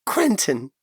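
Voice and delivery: choking up, high and tearful; choked with tears. A narrator's reading. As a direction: say it through tears. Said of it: "Yanri choked out through tears".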